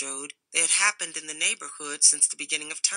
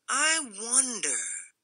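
slow musing Rufus; 6 semitones higher, 5 dB quieter, much slower than usual. A narrator's reading. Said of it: "grunted Rufus".

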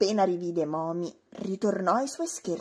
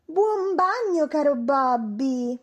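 slow, loud gleeful taunt; smug teasing voice; gloating; 5 semitones higher, 5 dB louder, slower than usual. A narrator's reading. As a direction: savour the prank. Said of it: "gli disse gongolando".

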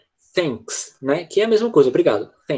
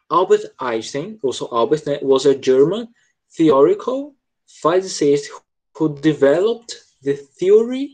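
leitura modelo; slower than usual. Shown as a demonstration. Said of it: "Então ficaria tipo assim, ó".

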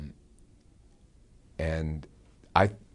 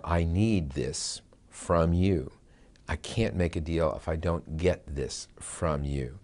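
slow, deliberate acted plea; hard point; slower than usual. Negotiator telling the other side a non-negotiable need, slow and firm. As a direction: state a firm demand, word by word. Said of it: "I'm telling you this is a hard point".

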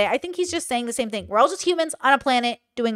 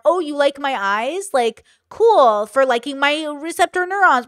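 smart aleck; 3 semitones higher, 4 dB louder, slower than usual. Retold or imitated. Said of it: "a smart aleck and go".

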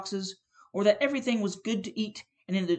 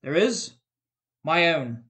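ghost voice; 5 dB louder, slower than usual. Acted. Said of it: "ghost answers".

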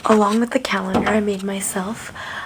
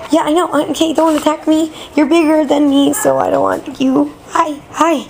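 high pet-talk voice; 5 semitones higher, 5 dB louder than usual. Acted.

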